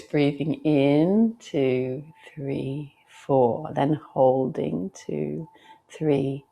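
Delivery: measured counting that sinks away on the exhale; guided breath count. Shown as a demonstration. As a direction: lead a class through one slow breath. Demonstrates the breath count again.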